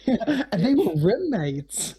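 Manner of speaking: slow awkward deadpan. Shown as a demonstration. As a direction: drag it out awkwardly. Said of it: "That was awful".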